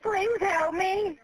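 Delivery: slow, tearful begging; sobbing plea. Real, not acted. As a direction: drag out the plea through tears. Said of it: "I'm just scared".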